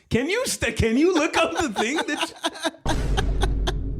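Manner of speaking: high, loud words through laughter; cracking up mid-sentence; laughing while talking. Real, not acted. Laughing at the image.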